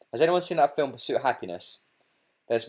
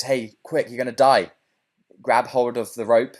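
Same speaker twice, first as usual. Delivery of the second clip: urgent call; 6 dB louder than usual. Retold or imitated. Helicopter rescuer calls to drowning man.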